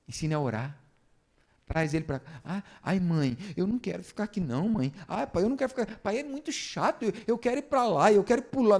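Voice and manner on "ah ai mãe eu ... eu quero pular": put-on high-pitched kid whining and pleading; whining child. Bored child begging mom and dad to go play, whining.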